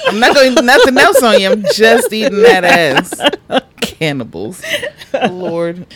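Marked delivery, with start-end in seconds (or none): 0.1-3.6 slow sultry. Retold or imitated. Drawn-out sultry quote.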